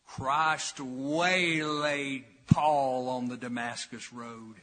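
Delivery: slow, drawn-out attempt at a Texas accent; lightly imitated Texas radio preacher, stretching the words; J Vernon McGee. Preacher quotes radio teacher from Texas, lightly imitated Texas drawl. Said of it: "I wish I could do his accent".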